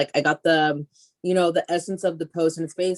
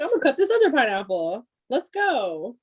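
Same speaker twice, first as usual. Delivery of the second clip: higher, fast self-hype; retold pep talk; 5 semitones higher than usual. Pumping herself up to cut the pineapple, higher and fast. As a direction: psych yourself up, quick and bright.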